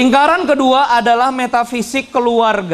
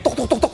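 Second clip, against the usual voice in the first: imitated clapping; 5 dB quieter, faster than usual.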